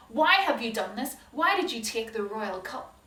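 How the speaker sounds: hard and cold, make them squirm; harsh voice. Acted. Joseph confronting his brothers, harsh and stern. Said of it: "And in a harsh voice".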